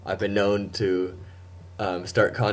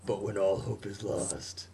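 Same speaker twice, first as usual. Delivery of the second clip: slow, dramatic trailer narrator; lightly hammed movie-trailer voice; 4 dB quieter, slower than usual. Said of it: "keep the narrator voice going".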